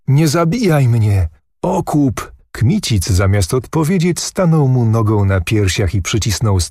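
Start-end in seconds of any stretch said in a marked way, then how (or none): 0.1-2.3 quick, higher plea for his life; pleading call. A narrator's reading. Beaten prince begs Kmicic, quick and high. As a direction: beg hastily, voice jumping up. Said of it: "zawołał prędko".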